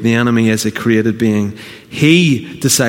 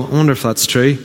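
inner doubting voice. Retold or imitated. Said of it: "inside you go".

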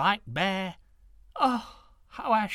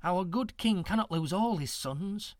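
soothing; 6 semitones higher, 4 dB louder than usual. A narrator's reading. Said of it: "said soothingly to the girl".

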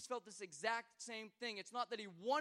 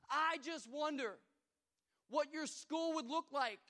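loud, slow, drawn-out wondering; slow emphatic preaching; 6 semitones higher, 6 dB louder, slower than usual. Acted. Pastor challenging students, slow and loud. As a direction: lean on each word.

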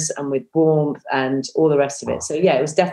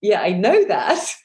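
slow, reluctant admission; grudging agreement; 4 semitones higher, slower than usual. Retold or imitated. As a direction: give in with a sigh in the voice. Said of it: "I'm like".

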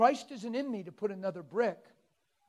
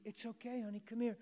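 tag; 4 semitones higher, 6 dB quieter than usual. Retold or imitated. Coaxing a frightened child in story.

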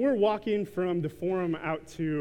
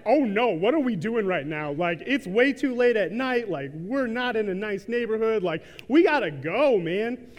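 louder, hurried inner panic; 4 semitones higher, 5 dB louder than usual. Retold or imitated. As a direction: let the inner alarm spill out, a bit loud. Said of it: "in my head, I was like".

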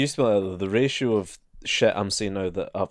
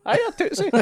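put-on high old man voice, laughing through it; cheery grandad greeting, half laughing; 3 dB louder than usual. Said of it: "Seen that video of the old guy".

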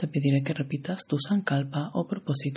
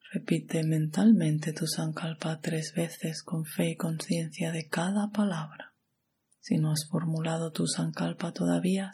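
calm, even meditation guide with long pauses; measured yoga nidra instruction, phrase by phrase; guided meditation. Acted.

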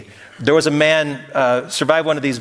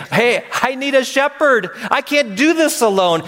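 a lightly voiced worn-out plea, high; half-acted cry for help, pitched up; pleading for a shepherd; 9 semitones higher than usual. Worshipper voiced begging God for a shepherd, mild plea.

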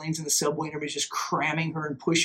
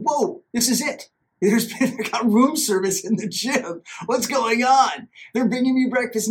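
excited; 5 semitones higher than usual. Retold or imitated. Imagines room service in gym.

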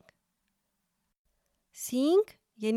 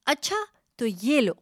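louder, acted angry challenge; 4 semitones higher, 6 dB louder, faster than usual. A narrator's reading. First goat starting a fight, angry loud challenge. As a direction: throw down the challenge, a bit louder. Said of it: "زور سے بولی".

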